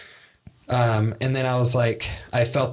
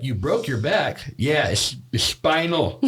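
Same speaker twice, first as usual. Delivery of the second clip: lightly voiced lisping boxer, a bit slow; a hint of a famous boxer's lisp; Mike Tyson impression. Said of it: "look up Mike Tyson spinal".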